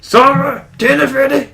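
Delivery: high, loud mum calling upstairs; yelling across the room. Pretend. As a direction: call him down to dinner. Mother calling son downstairs.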